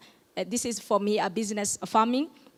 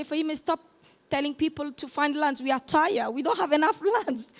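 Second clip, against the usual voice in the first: raised voice, mimicking tired callers begging her to stop; exasperated plea; 6 semitones higher than usual. Villagers calling Fahima to beg her to stop, mock-exasperated and pitched up. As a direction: pitch it up like weary villagers complaining, half laughing. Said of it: "people call me and say".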